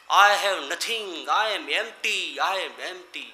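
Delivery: very slow, drawn-out mock wail; imitated despairing cry. Dying tycoon crying out alone in his room, imitated drawn-out wail. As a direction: stretch each word into a wavering cry, fading. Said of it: "અને કાળી ચીસો પાડતો".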